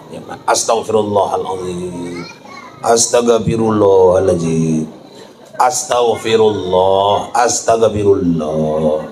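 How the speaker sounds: low, slow stumbling astagfirullah; fumbling groom. Retold or imitated. Groom told to repent stumbles over it, low and slow.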